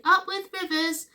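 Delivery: high-pitched joyful cheer; hooting. A narrator's reading. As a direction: hoot it high, like a herd's chant. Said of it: "And they hooted".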